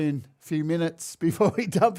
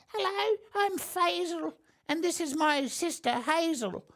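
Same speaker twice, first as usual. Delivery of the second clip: put-on very high elderly lady's voice; 11 semitones higher, 4 dB quieter than usual. Speaker voices a character introducing himself and his sister, in an old lady voice. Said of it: "Faisal sounds like a bloody old lady".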